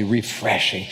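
refreshing drawn out slowly and softly. Shown as a demonstration. Pastor savoring refreshing, slow and soft. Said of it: "Just say it slowly".

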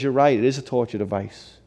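imitated pastor's subdued, measured concession; pastor calmly agreeing. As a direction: concede it calmly, without any outrage. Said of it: "He says".

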